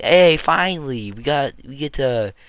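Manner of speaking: high, loud and slowed "Hey, finally"; excited cheer. Pretend. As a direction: cheer like relieved citizens. Imagined Belarusians cheering new government.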